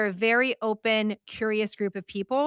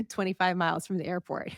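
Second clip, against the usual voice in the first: a laugh breaks in mid-sentence; real laugh at the absurd plan; amused, laughing through the words. Real, not acted. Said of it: "I'm laughing".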